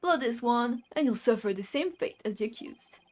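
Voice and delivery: lightly voiced Brooklyn tough guy; Brooklyn accent. Justice minister to a nosy lawyer, light Brooklyn accent. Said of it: "a Brooklyn accent".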